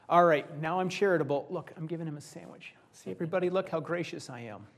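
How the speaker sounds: hammed-up self-righteous giver, loud at first; mock show-off giver. Preacher mocking a showy giver to the congregation, hammed-up smugness. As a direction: play the smug do-gooder for the crowd.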